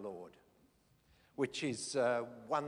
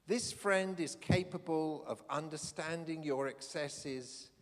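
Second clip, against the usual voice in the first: formal speech; 3 dB louder than usual. Acted. Reads out bishop's speech.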